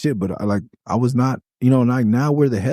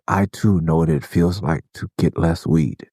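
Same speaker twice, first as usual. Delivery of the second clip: lightly mocking sympathy; 7 semitones lower than usual. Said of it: "You say".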